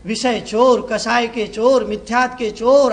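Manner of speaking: slow drawn-out call of "जागते रहो"; watchman's call. Shown as a demonstration. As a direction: call it out slowly like a night watchman. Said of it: "चिल्ला चिल्ला के कहता हूं".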